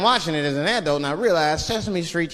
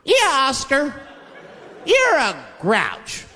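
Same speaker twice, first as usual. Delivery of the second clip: slow chanted taunt, higher; kids taunting; 8 semitones higher, much slower than usual. Acted. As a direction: jeer like a crowd of kids.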